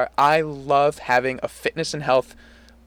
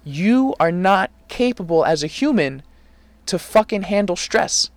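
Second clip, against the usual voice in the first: slow, emphatic, higher-pitched retelling; retold blunt lecture; 5 semitones higher than usual. Retelling how he confronted his coworker about stress, slow blunt lecture. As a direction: lay it out slowly and firmly, retelling a confrontation.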